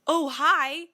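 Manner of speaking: high, loud awkward hi; caught-out hello. Retold or imitated. Caught eating roommate's leftovers, awkward high greeting. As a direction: greet her like you got caught. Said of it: "I'm like".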